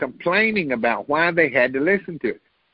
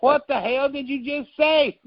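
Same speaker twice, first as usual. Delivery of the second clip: incredulous; 11 semitones higher than usual. Retold or imitated. Listener reacting in disbelief.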